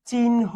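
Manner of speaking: চিহ্ন said as "chinho", with the n sound before the h; teacher shows that চিহ্ন is said with n before h; pronunciation demo. Shown as a demonstration. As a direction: model চিহ্ন carefully as chin-ho, n first, then h. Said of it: "এটার উচ্চারণটা হচ্ছে এরকম".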